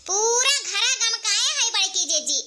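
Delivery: slow words broken by laughter; laughing praise. Acted. Family member praising elder sister-in-law's cooking, laughing. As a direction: laugh while you praise.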